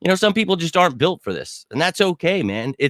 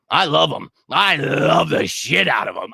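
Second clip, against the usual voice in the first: passionate shout. Real, not acted. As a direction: belt out your devotion. Declaring love for Eagles.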